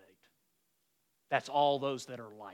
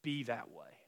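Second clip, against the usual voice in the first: gentle advice to Levi; 4 dB quieter than usual. Retold or imitated. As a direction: quietly counsel a young man. Telling Levi at the table.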